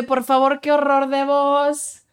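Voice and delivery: slow, disgusted put-on voice; mocking a commenter. Quoting a YouTube hater, disdainful mock voice. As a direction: sneer it like an offended stranger. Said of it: "Un güey así de".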